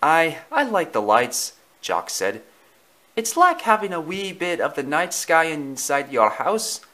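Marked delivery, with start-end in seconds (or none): 0.0-1.5 put-on Scottish-accented dog voice, pitched up; Jock. Jock names his favourite tradition, Scottish accent. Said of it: "a voice with a thick Scottish accent". 3.1-6.8 put-on higher voice with Scottish accent; Jock. Jock describes Christmas lights, Scottish accent. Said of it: "a voice with a thick Scottish accent".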